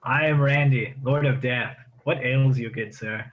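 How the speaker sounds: loud, lofty self-introduction in character; in-character Lord of Death. Acted. Player speaks as his character.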